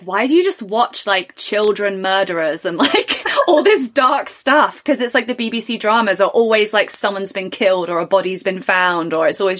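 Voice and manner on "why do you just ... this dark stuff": teasing judgmental voice; judging friends. Retold or imitated. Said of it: "They're like".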